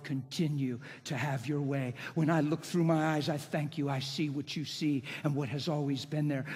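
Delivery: understated, conversational prayer; personal prayer. Shown as a demonstration. Preacher thanking God as in his bedroom, personal prayer. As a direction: pour out thanks privately, without performing. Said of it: "I'm talking like that".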